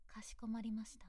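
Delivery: breathy close-mic whisper. Acted. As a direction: whisper the reply into the ear. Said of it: "same phrase voiced vs whispered". (耳元でささやいて)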